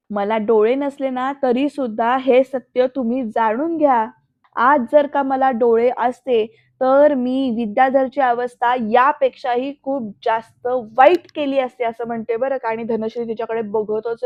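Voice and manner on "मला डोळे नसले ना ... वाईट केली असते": slow, louder, emphatic acted anger; defiant warning. Blind wife warning her sister-in-law, slow and defiant. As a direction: bear down hard on each phrase.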